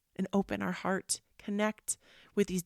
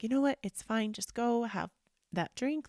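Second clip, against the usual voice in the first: tag; 4 semitones higher than usual. Retold or imitated. Acting out passive-aggressive phone reply.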